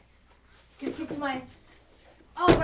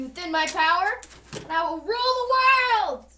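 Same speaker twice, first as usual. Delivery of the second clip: triumphant villain boast, higher and louder; megalomaniac rant; 4 semitones higher, 5 dB louder than usual. Pretend. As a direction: crow it like a mad scientist. Villain boasting of world domination.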